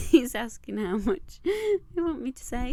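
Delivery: amused giggly relay of his question; laughing. Real, not acted.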